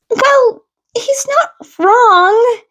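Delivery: high, slow laughing reply; confused laugh. A narrator's reading. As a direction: laugh it off, a bit puzzled. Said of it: "sounding confused".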